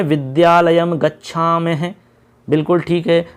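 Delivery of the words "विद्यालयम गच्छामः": slow answer. Shown as a demonstration. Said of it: "कहाँ जाते हैं?".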